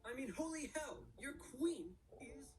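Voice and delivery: panicked monarch voice. Acted. Austria reacts in a cartoon voice.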